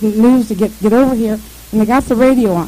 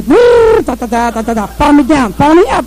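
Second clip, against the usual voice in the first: radio static voice; 3 semitones higher, 5 dB louder than usual. Retold or imitated.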